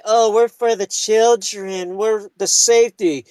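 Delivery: mocking caseworkers. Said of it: "They say".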